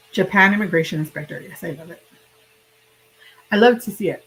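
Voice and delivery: talking through hiccups; hiccuping between words. Real, not acted. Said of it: "I can't stop hiccuping".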